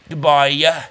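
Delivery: "Goodbye" with a "yuh" tacked on the end; added Y sound. Shown as a demonstration. Host showing his sign-off, "Goodbye" ending in "yuh". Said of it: "there is a Y in there".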